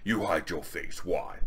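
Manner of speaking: slow, lightly voiced barbarian; mildly hammed-up, measured challenge; Conan's voice. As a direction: question it with a hint of stately warrior. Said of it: "This is how they're talking".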